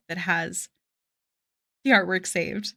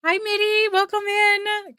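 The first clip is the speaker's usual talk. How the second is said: bright greeting; 11 semitones higher, 4 dB louder than usual. Real, not acted. Greeting a chat viewer.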